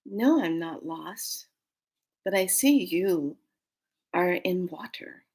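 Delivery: slow, measured, lightly voiced dragon; a hint of an ancient dragon. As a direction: speak like an ancient creature, unhurried. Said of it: "she goes".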